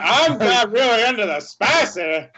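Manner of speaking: hint of a high cracking voice; mock voice crack. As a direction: tease with a slight squeak. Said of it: "I was like".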